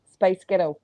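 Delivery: put-on "Spice Ghetto" run together to pass for Scottish "Spice Girl"; lightly Scottish "Spice Ghetto"; Scottish-sounding trick. Shown as a demonstration. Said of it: "would sound like Spice Girl in Scottish".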